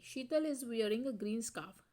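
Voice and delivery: very slow, each word spaced out; slow dictation. Shown as a demonstration. Teacher reading the example sentence aloud to students, very slow. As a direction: spell it out for the class.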